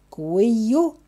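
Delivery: cuello drawn out slowly, pitch rising at the end; slow and careful. Shown as a demonstration. Teacher repeats the Spanish word for neck for learners, slowly. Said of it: "repeat it slowly again".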